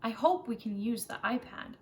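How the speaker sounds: put-on a kid excited for centers; lightly voiced eager child; Camden's voice. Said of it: "Camden starts off and says".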